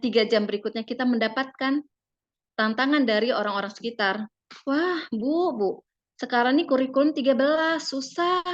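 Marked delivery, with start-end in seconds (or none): 4.7-8.4 high, whiny complaint about the new curriculum; complaining parent. Retold or imitated. Parent complaining to the mother, high and whiny. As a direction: voice a fretting parent, pitched up.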